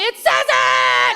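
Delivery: high, slow exasperated outburst. Real, not acted. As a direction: spell it out in frustration. Exasperated reply to husband.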